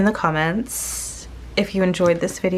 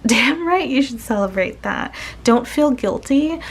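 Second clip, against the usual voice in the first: laughing, pitched up, cheering them on; 6 semitones higher than usual. Real, not acted. Reader laughing and cheering the viewer to celebrate.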